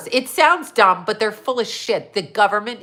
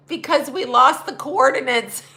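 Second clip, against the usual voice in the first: laughing quote; 4 semitones higher than usual. Retold or imitated. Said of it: "He said".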